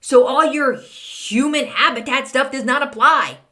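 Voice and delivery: mock indignant. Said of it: "I'm like".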